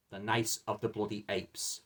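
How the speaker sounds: title said through a real yawn. Real, not acted. Yawning while naming the disappointing film. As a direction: let a yawn drag out the title. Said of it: "excuse me for yawning there".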